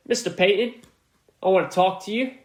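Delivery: a half-hearted British accent, barely put on; British accent attempt. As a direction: toss off a lightly faked British accent. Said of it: "tried to do a British or whatever accent".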